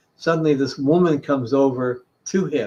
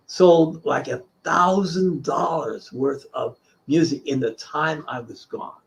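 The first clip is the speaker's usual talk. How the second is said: ordinary talk, nothing marked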